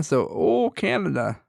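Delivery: hammed-up attempt at a Canadian accent; bad Canadian accent. Moving on to Canada, in a bad Canadian accent. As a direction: do a terrible mock Canadian accent. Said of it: "God, that was horrible".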